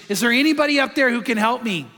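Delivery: half-hearted retold cry for help; desperate mock scream. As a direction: imitate a desperate man calling up, without really screaming. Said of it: "he screams in desperation".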